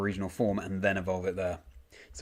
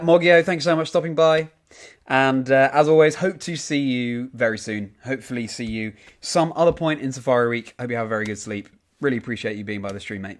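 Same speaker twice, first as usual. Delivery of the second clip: a cheery Australian send-off to a chat viewer, mate; Australian accent; 3 semitones higher, 5 dB louder than usual. Pretend. Streamer thanking a chat viewer goodnight in a light Australian accent. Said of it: "my Australian accent is passable".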